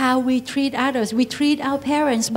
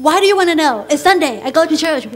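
defiant retort; 3 semitones higher, 5 dB louder, faster than usual. Acted. Acted rude reply to parents.

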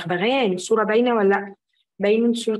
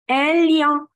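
raised model word; 4 semitones higher than usual. Shown as a demonstration. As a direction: call it out for them to repeat. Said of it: "كلنا نقول ورايا". (بصوت أعلى عشان يرددوا وراها)

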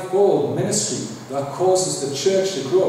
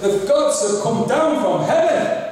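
awed crowd exclaiming; 5 semitones higher than usual. Retold or imitated. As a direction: call it out like an amazed crowd. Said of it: "people looked at them and said".

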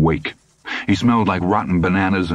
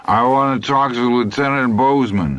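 a touch louder, higher and insistent; more loudly; 8 semitones higher than usual. A narrator's reading. Hap repeating his demand to the sergeant, more loudly. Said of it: "more loudly".

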